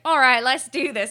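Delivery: lightly put-on Australian accent; Natalie Bolt impression. Fan imagining the actress before a take, mock Australian accent. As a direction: attempt a New Zealander, landing on Australian. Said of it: "I keep doing an Australian accent".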